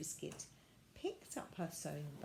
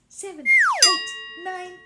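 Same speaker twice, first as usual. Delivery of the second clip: high, loud and slow; sing-song counting; 11 semitones higher, 19 dB louder, much slower than usual. Acted. Violet counting to ten, high and drawn out. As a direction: stretch the count up.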